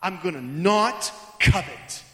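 loud, driven mock vows; strenuous resolve. Congregant vowing to stop coveting, loud and straining. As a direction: pile the promises up quickly and forcefully. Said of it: "With all of my strength".

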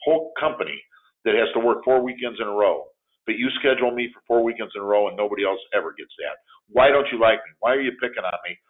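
upset worker confronting his boss in the hallway, angry; angry complaint. Acted. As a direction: demand answers from the boss, heated and hurt. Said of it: "and I'm angry".

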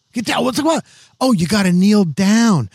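high-pitched Massachusetts yeller, imitated; Massachusetts accent. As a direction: mimic a cursing Massachusetts local. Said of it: "they had that Massachusetts accent".

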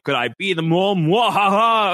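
hammy evil villain laugh; mad scientist. Retold or imitated. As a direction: cackle like a cartoon villain. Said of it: "he was very tongue in cheek".

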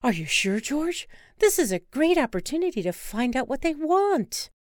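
put-on birthday girl begging to see penguins; eager Wanda. Wife urging husband onward, eager and pleading.

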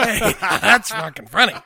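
amused jeer broken by laughter; imitating someone laughing at another's misfortune; laughing mockery. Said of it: "'cause you're laughing at this woman".

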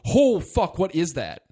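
mock alarm at a monster; sudden high cry of imitated fright; retold shock. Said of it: "recovering from the shock".

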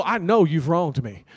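mock confrontation. Telling off line-cutter, imagined.

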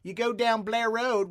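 mock Baltimore accent, Blair stretched with a rolled R; a light imitation of a Baltimore local; hinted Baltimore accent giving directions. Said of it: "my favorite, uh, Baltimore accent is".

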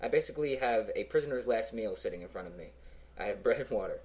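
chewing while talking; mouth full. Real, not acted. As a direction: talk through a mouthful of bread. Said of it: "if you hear me chewing".

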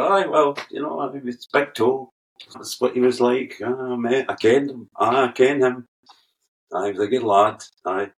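thick Scottish reminiscing, aye and ken; broad Scottish. Retold or imitated. Jim baffling Americans with broad Scottish. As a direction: play up the Scottish, folksy and rambling. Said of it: "Scottish answer".

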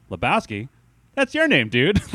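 high, excited Donny voice; Donny impression. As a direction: squeak it out high and eager. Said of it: "one of the first things he says is just like".

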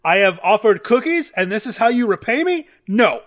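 indignant scolding. Acted. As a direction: scold them like naughty kids. Moonshadow scolding an attacker.

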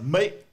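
"mate" punched high and loud; stressed, exaggerated "mate"; mimicked accent. Shown as a demonstration. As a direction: overdo "mate" with a rising pitch. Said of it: "So when you start".

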